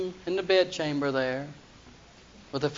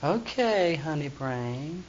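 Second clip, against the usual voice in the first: cooing Delilah; 5 dB quieter, much slower than usual. Retold or imitated. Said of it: "And she said".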